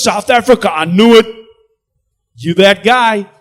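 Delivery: high and loud, thrilled teller; excited recognition. Retold or imitated. Teller recognizing the movie actor, high, loud and thrilled. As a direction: burst out as he recognizes you. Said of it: "super excited".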